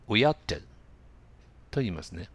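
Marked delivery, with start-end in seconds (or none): 0.1-0.6 "ought to" collapsed to "ah-da", flapped and quick; quick, linked "We ought to"; reduced "ought to". Shown as a demonstration. Teacher modelling the easy relaxed way to say it. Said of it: "言いやすいように発音してみてください".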